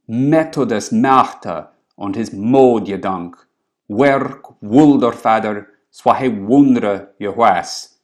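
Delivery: put-on slow, deliberate West Saxon Old English recital. Shown as a demonstration. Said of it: "now I'm gonna read in something like the Wessex dialect".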